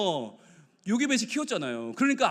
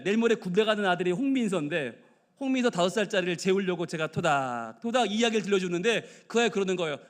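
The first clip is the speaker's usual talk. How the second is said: ordinary talk, nothing marked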